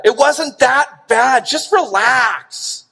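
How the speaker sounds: slow, drawn-out "Just relax"; mock husband waving off his wife's hurt; a lightly acted dismissive spouse; dismissive brush-off. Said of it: "the word relax is not a good one to use".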